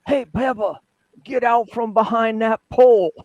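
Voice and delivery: high, loud teasing call; calling out across field. Retold or imitated. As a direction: yell it across the practice field. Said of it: "it'd be".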